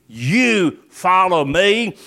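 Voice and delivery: "You" stretched and set apart; slow, deliberate phrase led by a weighty "You"; stress on YOU. Shown as a demonstration. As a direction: lean on "You", then measured words. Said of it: "I think there is an emphasis".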